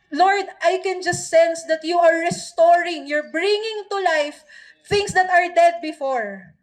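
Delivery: earnest spoken prayer, rising in intensity toward the middle; fervent prayer. Acted. Pastor praying over the church, fervent prayer. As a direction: pray over the congregation with growing conviction.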